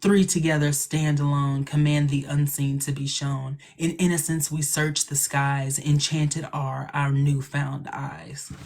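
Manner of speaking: slow, measured incantation; dramatic spell recital. Acted. Reciting a favorite spell from the show, dramatic incantation. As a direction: chant the rhyme slowly and evenly. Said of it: "it's really dramatic".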